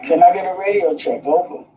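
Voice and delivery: crackly walkie-talkie transmission; thin, filtered radio sound. Real, not acted. Radio check over two-way radio.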